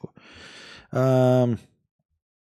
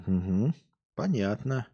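brushing it off, pitched up; teachers' voice; 3 semitones higher, slower than usual. Retold or imitated. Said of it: "они такие сразу". (насмешливо, высоким голосом)

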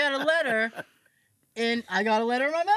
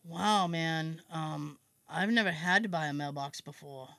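mock clueless; 5 semitones lower than usual. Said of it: "So I decide to be an asshole".

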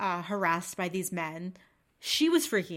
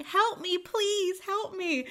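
high pleading cry, played lightly; mock panicked plea; 11 semitones higher, 3 dB louder, slower than usual. The harassed girl on the ride, mock panicked pleading. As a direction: imitate her begging for help. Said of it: "three rotations of screaming".

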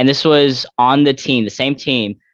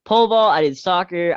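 laughing through it, higher pitch; laughing brag; 9 semitones higher, 3 dB louder than usual. Real, not acted. Athlete laughingly brags to interviewer about past wins, laughing. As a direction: giggle out the boast about being a badass.

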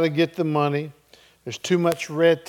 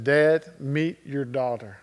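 soft, slow and much quieter; a hushed, tender introduction; tender nurse; 2 semitones lower, 4 dB quieter than usual. Retold or imitated. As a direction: hand the baby over gently. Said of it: "and she said".

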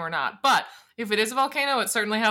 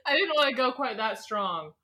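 laughing; 3 semitones higher than usual. Real, not acted. Laughing at her own word.

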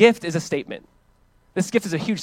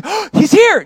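much higher, louder, thrilled cry; excited exclaim; 14 semitones higher, 9 dB louder, slower than usual. Acted. Simeon greeting baby Jesus, a thrilled high cry. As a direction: shout it like you just found treasure. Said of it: "this guy's like".

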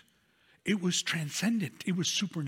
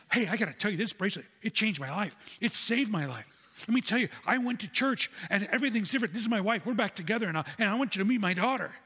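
excited testimony; 3 semitones higher, faster than usual. Retold or imitated. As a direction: blurt out life-changing news, imitating his excitement. Acting out grateful man's eager testimony.

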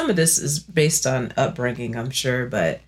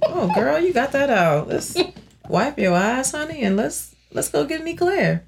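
put-on consoling girlfriend; 8 semitones higher than usual. Acted girlfriend consoling after a cry.

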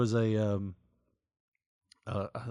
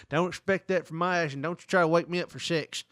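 grumpy wife voice; 6 semitones higher, 4 dB louder than usual. Retold or imitated. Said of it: "I turned her into that".

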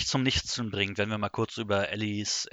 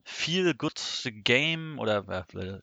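awkward stalling transition; 2 semitones higher, much slower than usual. Real, not acted. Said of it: "Überleitung der Meister".

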